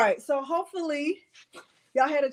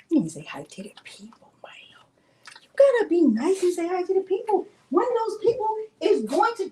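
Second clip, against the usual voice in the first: coaxing whisper; 5 semitones higher than usual. Real, not acted. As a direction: whisper gently to get the dog to greet.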